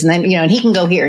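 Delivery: rattled off fast, words tumbling together; quick run-on, mimicking the friend; imitating fast talker. Mimicking her fast-talking friend Scott, rushed. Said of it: "And he goes like this".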